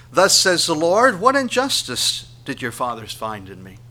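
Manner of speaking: loud, high opening that eases off; forceful reading, settling toward the end; scripture proclamation. Acted. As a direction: announce the verse like a herald.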